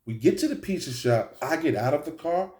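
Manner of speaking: ordinary delivery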